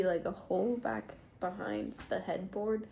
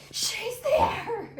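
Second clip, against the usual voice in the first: much higher, louder laughing mock squeal; 7 dB louder than usual. Woman retelling spotting her cat under the bed, laughing high squeal. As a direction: retell the moment you spotted her, giggling. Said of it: "but I was like".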